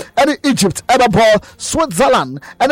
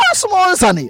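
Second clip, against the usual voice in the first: higher, mock exasperated plea; mock exasperated Ronaldo; 8 semitones higher than usual. Imitating Ronaldo fed up with critics, higher plea. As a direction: pitch it up as if fed up. Retold Ronaldo complaint at press.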